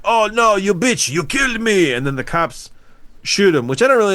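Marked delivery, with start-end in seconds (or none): 0.0-1.9 high, mock-dramatic dying protest; dying spider. Spider to the woman who killed it, mock dying outrage. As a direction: wail it high, hammed-up. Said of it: "then the spider's like".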